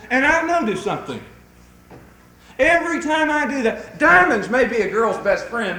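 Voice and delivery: loud, high-pitched preacher building momentum; fervent preaching. Real, not acted. Preacher urging husbands to buy flowers, fervently. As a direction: drive the point home with preaching fervor.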